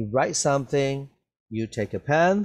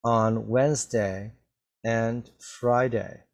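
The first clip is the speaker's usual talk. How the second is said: slow, careful read-through for the class; slow reading aloud; slower than usual. Shown as a demonstration. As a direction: read it out slowly so learners can follow. Teacher reads text slowly aloud.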